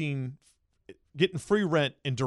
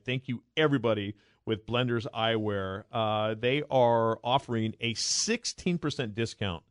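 upbeat sponsor read; host reading the sunglasses ad; 2 semitones lower than usual. Acted. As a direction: sell it, friendly and smooth. Reads sponsor ad.

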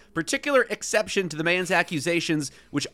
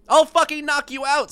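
high, louder threat; acted angry threat; 9 semitones higher, 5 dB louder than usual. A narrator's reading. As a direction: throw the threat right back. Acted threat in golf quarrel.

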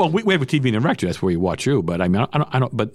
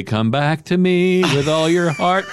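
recorded hotline message; 8 semitones higher, 3 dB louder, much slower than usual. Pretend. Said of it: "I come on, say".

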